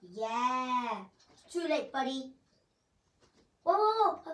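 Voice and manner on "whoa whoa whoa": high, loud startled cry; startled whoa. Real, not acted. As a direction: jump at the surprise. Sudden surprise in game.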